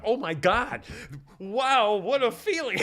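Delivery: high, loud rush of awe; reliving a giddy, wowed moment; retold amazement. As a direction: exclaim it, thrilled and astonished. Reenacts amazement at his new power.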